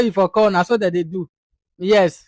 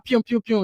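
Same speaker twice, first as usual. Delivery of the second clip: quick "pyoom" noises in a row; light throwing sound effects; repeated tossing sound; 4 dB quieter than usual. Retold or imitated. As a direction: mimic litter flung left and right. Imitates everybody throwing rubbish about.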